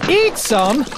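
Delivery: shocked rising question; gasped. Acted. Bartholomew hears the captain will eat it, a mild gasp. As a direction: catch your breath at the idea. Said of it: "gasped Bartholomew".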